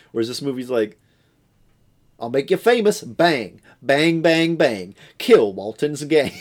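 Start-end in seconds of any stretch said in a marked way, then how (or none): 2.2-6.3 punchy, raised-voice movie parody; hammed-up gunslinger shouts; mock action hero. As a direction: fire off the bangs like a kid playing gunfight. Mimicking the sequel's action lines.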